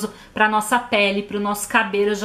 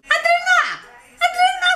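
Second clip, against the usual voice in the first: very high shrill-pitched mock call of Adriana; hammed-up mother yelling the daughter's name; imitating mom calling; slower than usual. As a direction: shriek the name like her mother does. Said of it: "Ela fala assim".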